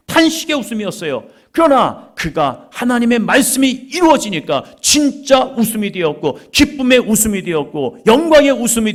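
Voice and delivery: loud, high, driving sermon cadence; impassioned preaching. Real, not acted. Preacher proclaiming mocking laughter turned to true laughter, impassioned preaching. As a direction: build phrase upon phrase at full force.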